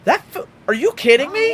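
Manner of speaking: loud, high disbelief; incredulous yell. Retold or imitated. Seeing the wheel hub that hit dad, incredulous yell. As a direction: shout it in shock. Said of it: "I'm like".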